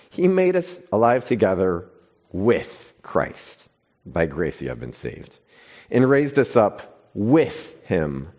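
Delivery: emphatic sermon reading of scripture, some words slowed. Acted. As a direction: read the passage like a preacher, leaning on key words. Reads Ephesians aloud in church.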